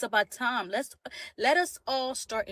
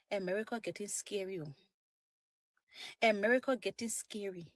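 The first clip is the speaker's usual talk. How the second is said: Liberian accent; 2 semitones lower, 3 dB quieter than usual. Shown as a demonstration. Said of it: "I'm gonna put in my Liberian accent".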